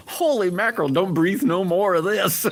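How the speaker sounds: high, loud giddy squeal; giddy gas voice. Retold or imitated. Patient giddy from laughing gas talking to himself, squealing high.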